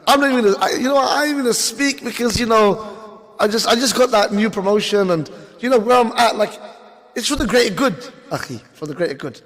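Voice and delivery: high, smug, excuse-making voice; mock hypocrite voice. Mocking a promoted Muslim who stays silent, high and smug. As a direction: play the comfortable careerist brushing it off.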